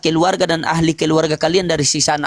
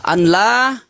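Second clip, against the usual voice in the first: recited shahada; slower than usual. Shown as a demonstration. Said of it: "Kalau bersyahadat itu".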